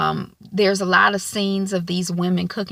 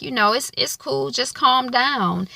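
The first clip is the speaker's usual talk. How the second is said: soothing Lawrence; 6 semitones higher than usual. Retold or imitated. Boyfriend calms his anxious girlfriend, mock soothing. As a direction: settle her down gently.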